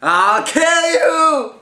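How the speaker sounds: high, loud, slow furious threat; angry threat. Acted. Loser threatens winner.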